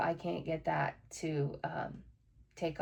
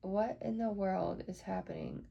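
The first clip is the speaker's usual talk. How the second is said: muttered to herself; 9 dB quieter than usual. Real, not acted. Muttering at a broken computer.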